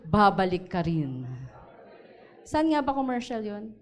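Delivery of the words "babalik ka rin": call to repeat. Shown as a demonstration. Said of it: "Everybody say".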